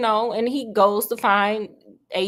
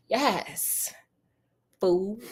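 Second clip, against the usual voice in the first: sly whispered gloat to himself; villain whisper; 7 dB quieter, slower than usual. Retold or imitated. Agent Smith gloats at the mirror in a whisper. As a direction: hiss it like a scheming villain.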